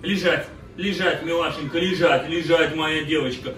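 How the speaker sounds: repeated dog commands, gently coaxing; talking to a dog. Real, not acted. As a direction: coax the dog through sit and down.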